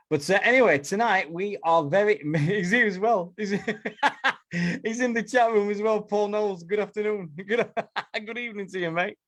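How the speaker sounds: high, laughing hello; laughing greeting. Real, not acted. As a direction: giggle through the welcome. Greeting guest while laughing.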